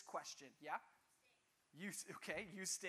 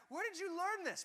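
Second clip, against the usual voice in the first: high, louder mock disbelief; exasperated parent; 9 semitones higher, 5 dB louder than usual. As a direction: act the stunned parent asking the child. Parent exasperated at biting son.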